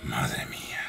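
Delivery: low breathless whisper; awed whisper. Real, not acted. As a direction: breathe it out in dread. Momento de tensión. (susurro asustado)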